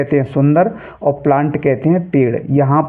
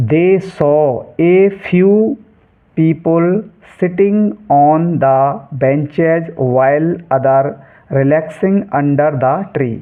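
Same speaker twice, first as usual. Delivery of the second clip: careful, drawn-out textbook reading; slow reading aloud; much slower than usual. Shown as a demonstration. Teacher reading the English passage to students, slow and clear. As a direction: read each English word very slowly and clearly.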